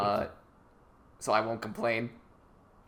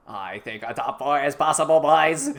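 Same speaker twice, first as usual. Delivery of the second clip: JFK; 3 dB louder than usual. Acted. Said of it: "What was that voice?".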